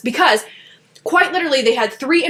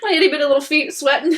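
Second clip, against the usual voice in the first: laughing cutesy; 3 semitones higher, faster than usual. Real, not acted. Cute self-mockery.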